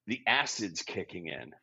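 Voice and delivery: low, soft punchline; deadpan murmur. Acted. Speaker's own prom confession, low deadpan murmur. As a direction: drop it quietly, mock confiding.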